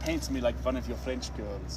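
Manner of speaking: lightly acted seductive film quote; sultry movie line. Streamer quoting the movie line to chat, lightly sultry. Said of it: "First off, the movie, but when you say".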